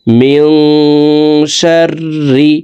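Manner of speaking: মিং nasal, শাররি with doubled R; ghunnah and shadda. Shown as a demonstration. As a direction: hum the ন through the nose. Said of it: "গুন্নার সহিত পড়ব". (গুন্না দিয়ে মিং শাররি)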